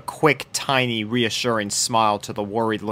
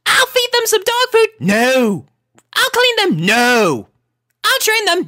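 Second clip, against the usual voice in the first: much higher, whiny plea; begging; 4 dB louder than usual. A narrator's reading. Sweetie Belle begging Rarity for the puppies. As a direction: plead like a little kid.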